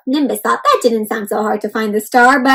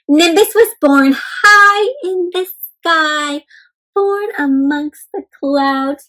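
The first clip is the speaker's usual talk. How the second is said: slow, lilting read-aloud voice; story narration; 2 semitones higher, slower than usual. A narrator's reading. Teacher reading a picture book to children, slow and lilting. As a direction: read it slowly to the little ones.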